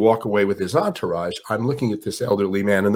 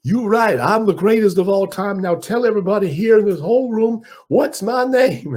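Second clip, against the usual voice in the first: high, loud, boastful champ, slowing at the end; Ali impression; 11 semitones higher, 3 dB louder than usual. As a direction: crow it high, then draw out the question. Ali demands his name.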